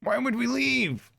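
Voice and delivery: from a mutter up to a high, loud, slow cry; building exasperation. Real, not acted. Player incredulous at the story choice, building to a high slow yell. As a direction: let the disbelief climb until you're yelling it out.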